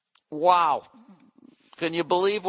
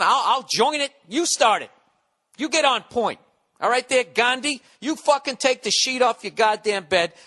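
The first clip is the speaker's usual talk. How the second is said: higher, pushed, furious tirade; angry rant; 5 semitones higher than usual. Real, not acted. Ranting at foreigners who lecture him on America. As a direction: tear into them like they've crossed a line. Daring critics to start revolution.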